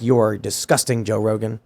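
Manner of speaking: low, quiet mock disgust. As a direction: sneer it low and soft. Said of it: "posts a clip of it being like".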